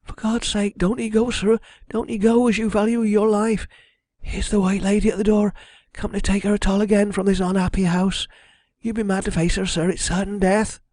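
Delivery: high, pleading voice of terror; frightened servant's urgent warning; terrified woman. A narrator's reading. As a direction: beg in a high voice, fearing for his life. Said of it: "in a fresh access of terror".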